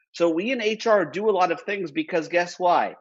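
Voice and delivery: ordinary talk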